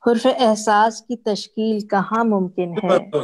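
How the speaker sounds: mushaira-style poetry reading; ghazal recitation. Acted. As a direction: recite each half-line deliberately, pausing before the refrain. Restarts her ghazal.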